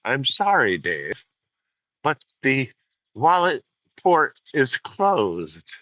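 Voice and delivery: lightly voiced cool computer; the wallet port stays shut, said coolly; mock Hal refusal. Refusing a borrower, mock Hal voice. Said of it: "reply in that tone".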